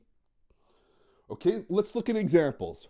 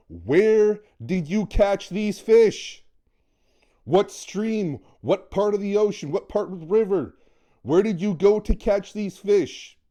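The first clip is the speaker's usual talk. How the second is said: eager question; 3 semitones higher, 4 dB louder than usual. Retold or imitated. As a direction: press him for the fishing spot. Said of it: "the first thing out of your mouth is".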